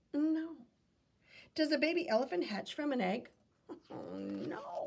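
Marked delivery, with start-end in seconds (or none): 3.7-4.8 low, soft laugh through the words. Real, not acted. Reading to a child, laughing at a silly question. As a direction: chuckle it off, amused. Reacting to elephant egg question.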